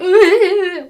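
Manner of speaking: high, loud put-on wail; mock crying. Narrator acting out Draco crying sadly, mock sobbing. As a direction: fake a high, whining sob. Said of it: "Draco started to cry sadly".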